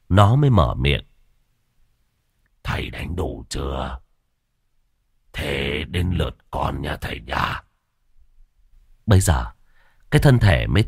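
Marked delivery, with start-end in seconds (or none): 2.6-7.6 low, quiet menacing creature voice; low ghostly taunt. Acted. Dog ghost taunting the beaten master, low and menacing. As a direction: sneer it softly like a demon dog.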